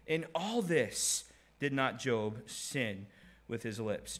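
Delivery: Job's rebuke. Retold or imitated. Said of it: "he said unto her".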